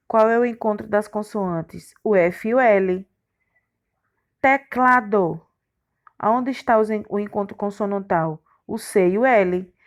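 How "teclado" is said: slow teacher's syllable split. Shown as a demonstration. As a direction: sound out each syllable separately. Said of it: "essas palavras estão separadas". (separando as sílabas devagar)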